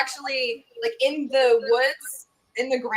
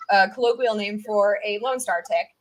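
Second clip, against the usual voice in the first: ordinary talk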